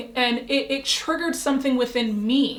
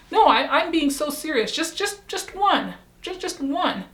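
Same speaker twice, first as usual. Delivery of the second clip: higher-pitched, earnest retold insistence; insistent pleading; 5 semitones higher than usual. Pressing coworker for just one example, insistent. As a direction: press for it with mock-serious urgency.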